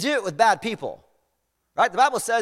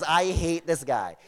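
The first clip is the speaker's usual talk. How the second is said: slow, understated grudge; grudging admission; 3 semitones lower, slower than usual. Retold or imitated. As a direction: repeat the confession slowly, for emphasis. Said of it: "He says".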